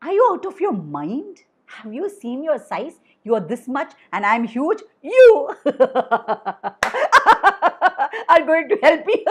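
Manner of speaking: lion scoffing, breaking into laughter; lion laughing off the mouse's promise; mocking lion. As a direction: laugh at the tiny creature's offer.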